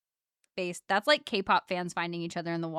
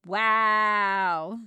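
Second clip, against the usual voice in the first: stunned wow; 8 dB louder than usual. Real, not acted. Stunned by tour news.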